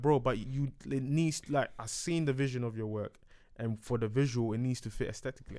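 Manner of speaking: low, hushed explaining voice; imitating Mac quietly. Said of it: "He was like".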